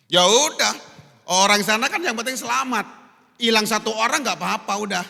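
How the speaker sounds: loud, high shrug it off; careless sailors. Acted. Sailors shrugging about throwing Jonah overboard, loud and high. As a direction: toss the life away lightly.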